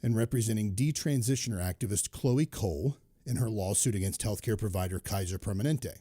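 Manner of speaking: winded after running up the stairs; reading while catching breath. Real, not acted. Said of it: "Sorry, I'm catching my breath".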